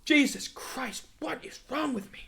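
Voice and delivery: words stretched by a yawn. Real, not acted. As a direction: talk through the end of a yawn. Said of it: "I don't know why I'm yawning so much".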